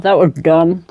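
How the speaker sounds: candy still in the mouth; sucking candy. Real, not acted. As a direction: talk around a sweet you're sucking. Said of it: "talk with candy in my mouth".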